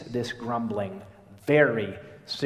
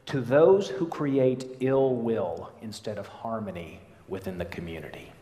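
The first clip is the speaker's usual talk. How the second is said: quoted reading. Acted.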